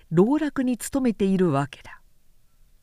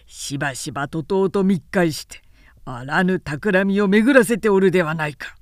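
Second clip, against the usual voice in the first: stern angry retort; 3 semitones lower than usual. Acted. Old retainer firing back at Harada, raised and stern. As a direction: push back hard, voice raised.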